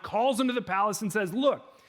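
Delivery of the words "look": a sharp, raised "Look" from a king losing his temper; mock furious king. King losing his mind at the three men, mildly raised voice. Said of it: "Nebuchadnezzar loses his mind".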